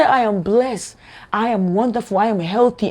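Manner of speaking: earnest, felt self-blessing; heartfelt affirmation. Shown as a demonstration. Speaker showing how to affirm health and blessing, heartfelt. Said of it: "and you feel it within your heart".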